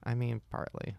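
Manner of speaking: whispered teasing aside. Real, not acted. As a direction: drop to a whisper to tease.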